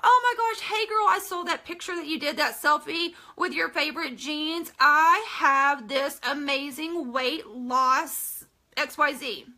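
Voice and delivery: mock a syrupy weight loss pitch; lightly voiced sugary recruiter; spam sender. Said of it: "Another one that I love to get".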